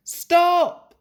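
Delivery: sudden high, loud shout; shouted stop. A narrator's reading. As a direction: yell stop in alarm. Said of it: "Thomas called".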